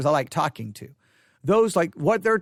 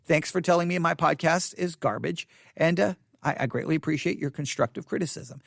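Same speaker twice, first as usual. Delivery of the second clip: sarcastic thanks; 3 semitones lower than usual. Retold or imitated. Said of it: "You'll be like".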